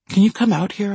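put-on slightly slurred drunk words; drunk slurring. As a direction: let the words slur a little. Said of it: "my words slurring".

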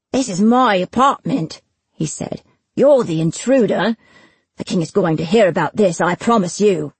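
lightly voiced affronted official, emphatic; indignant bailiff Granger. Bailiff threatening Destin with the king, indignant. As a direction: protest the intrusion with lightly acted indignation.

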